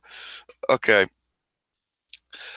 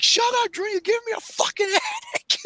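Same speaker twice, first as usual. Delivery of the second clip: mimicking her; 4 dB quieter than usual. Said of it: "She's like".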